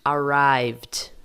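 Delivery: ARRIVED ending in a voiced VD, no vowel. Shown as a demonstration. Teacher repeats the correct past, ED as D. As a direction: close ARRIVED on a short D. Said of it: "Esse é o som dele".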